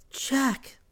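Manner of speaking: whisper. Acted. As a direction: breathe the name, no voice. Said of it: "whispered Sylvia".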